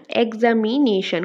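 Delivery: এক্সামিনেশন slowly in four beats, এক্সা-মি-নে-শন; split into syllables. Shown as a demonstration. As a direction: stretch out each part of এক্সামিনেশন. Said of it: "কয়টা হলো?". (এক্সামিনেশন চার ভাগে ধীরে ধীরে)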